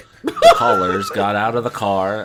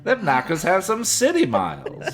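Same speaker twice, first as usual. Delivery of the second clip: laughing; 9 semitones higher than usual. Real, not acted. Joke through laughter.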